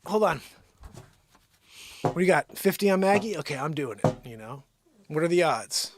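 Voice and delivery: loud, high hustler pitch; pretend bookie. Pretending to take bets on the dog fight, loud and pushy. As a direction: hype it like a betting hustler. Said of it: "I'm like".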